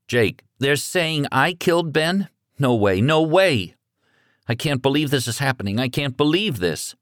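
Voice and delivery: put-on a scared boy who can't take it in; teen voice cracking with shock; frightened teenage son. A narrator's reading.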